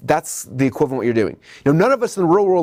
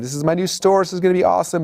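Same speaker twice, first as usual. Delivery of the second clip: excited; 5 semitones higher than usual. Retold or imitated. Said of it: "you're all excited".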